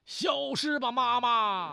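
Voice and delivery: put-on high, loud child voice casting a spell; put-on high girlish command; little girl. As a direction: cry it out like a little girl with a magic wand. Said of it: "对着她妈就说".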